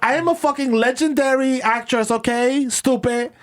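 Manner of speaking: diva actress. Pretend. Actress girlfriend berating him.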